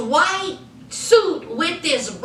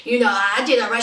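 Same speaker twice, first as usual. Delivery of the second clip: sheepish husband; 6 semitones lower, faster than usual. Retold or imitated. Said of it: "And he was like".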